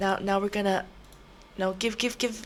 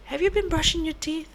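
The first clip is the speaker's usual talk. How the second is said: stern question; 10 semitones higher than usual. Acted. Scolding patient dentist role.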